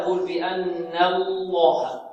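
بأن الله slow, lam of الله thick; drawn-out heavy lam in الله. Shown as a demonstration. Teacher modeling correct الله for students. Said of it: "لا نرقق اللام الأولى".

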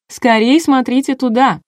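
high, urgent cry; excited shout. A narrator's reading. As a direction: call everyone to look at once. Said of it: "закричала Маша".

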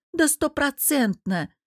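mildly scornful assurance; knowing snort. A narrator's reading. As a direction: confirm it like an expert, drawn out. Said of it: "сознанием дела фыркнула она".

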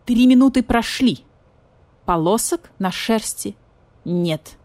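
formal yet glum announcement; solemn but joyless. Acted. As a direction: announce it without joy. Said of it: "торжественно, но как-то безрадостно".

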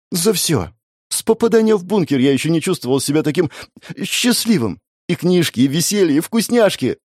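put-on high, gushing kid's joy; excited childlike gushing; excited child. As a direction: pour it out, thrilled little boy. Excited child gushes thanks.

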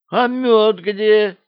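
an outraged, drawn-out squeal of protest; indignant. A narrator's reading. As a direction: demand it in disbelief. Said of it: "возмутился ограбленный бортник".

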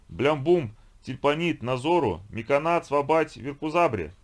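высокое громкое бульканье тарабарщины; пробулькай, как желейное существо; булькающий инопланетянин. Acted. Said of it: "пробулькал тот". (булькающий голос инопланетянина)

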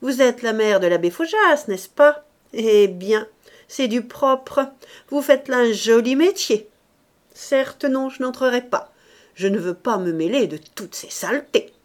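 indignée, voix haute et forte; indignation. A narrator's reading. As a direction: fort et plus aigu, outrée, en refusant d'entrer. Furious woman refusing to come in. (ton indigné et outré)

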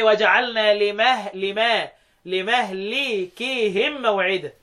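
لمهلكهم drawn out as li-mahlikihim; kasra on the lam. Shown as a demonstration. Teacher showing Hafs's reading, slow kasra in لمهلكهم. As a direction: recite لمهلكهم slowly, i after the l. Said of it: "بيكسر اللام".

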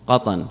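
"قطن" as qatan, two short a vowels; two-fatha vowelling. Shown as a demonstration. Teacher repeating the name for students, "قطن" vowelled qatan. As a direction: pronounce "قطن" qa-tan, both syllables with a. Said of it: "بفتحتين".

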